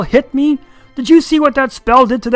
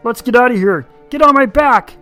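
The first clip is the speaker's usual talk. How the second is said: loud, urgent dragon cry; loud sharp voice; 12 semitones higher, 11 dB louder than usual. Acted. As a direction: bark the escape order. Hubert urges escape.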